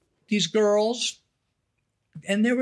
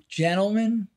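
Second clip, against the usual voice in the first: carnival barker; 3 semitones lower than usual. Retold or imitated. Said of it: "carnival barker voice".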